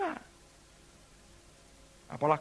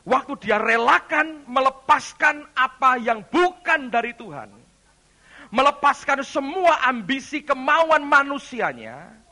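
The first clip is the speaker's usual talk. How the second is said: raised, forceful sermon delivery; emphatic preaching; 11 semitones higher, 11 dB louder than usual. Real, not acted. Preacher teaching the congregation about letting go, emphatic preaching. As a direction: press each point home to the congregation.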